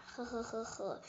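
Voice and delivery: acted chuckle. The two dinosaurs share a joke over fruit, soft chuckle. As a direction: giggle along quietly.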